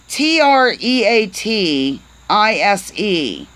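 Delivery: slow, deliberate letter-by-letter spelling; careful spelling; spelled out slowly. Shown as a demonstration. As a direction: spell it out one letter at a time. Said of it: "I'm gonna spell it".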